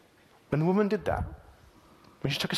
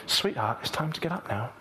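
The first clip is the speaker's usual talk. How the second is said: gentle parent. Retold or imitated. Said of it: "much more like a parent saying to a little child".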